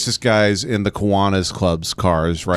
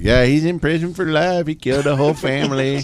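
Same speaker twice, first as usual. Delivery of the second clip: imitated player talk; 6 semitones higher than usual. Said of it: "who were just like".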